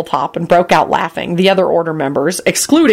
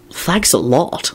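irritable; 2 semitones lower, 4 dB quieter, much slower than usual. A narrator's reading. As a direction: answer with irritated sarcasm. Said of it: "Lupin replied irritably".

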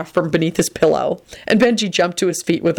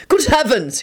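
shouting; 8 semitones higher than usual. Acted. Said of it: "he shouted".

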